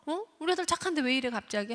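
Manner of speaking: mock-friendly coaxing after the outburst; smooth it over, shifting blame; rationalizing coax. Guilty parent coaxing the child, mock friendly. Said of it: "하면서 합리화를 합니다".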